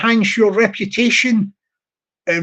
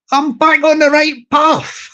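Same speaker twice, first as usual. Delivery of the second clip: slow, raised-pitch garden call; mock shout; 5 semitones higher than usual. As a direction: call it out slowly, higher, without real volume. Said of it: "back garden and shout".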